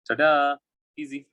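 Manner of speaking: triumphant ta-da. Real, not acted. Teacher reveals the solved answer.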